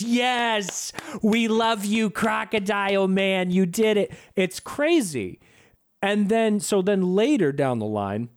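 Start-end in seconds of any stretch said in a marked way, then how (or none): 0.0-4.1 higher, adoring crowd cry; mock cheering. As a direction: imitate a crowd hailing its hero. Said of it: "they're cheering for him".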